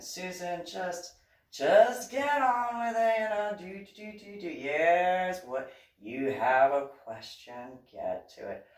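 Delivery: a hint of a hurried, brushing-off pastor, slow; impatient pastor. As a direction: mimic him waving her along, lightly.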